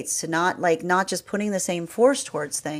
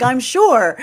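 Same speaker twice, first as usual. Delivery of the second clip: confident; 7 semitones higher, 10 dB louder than usual. Pretend. Confident reply.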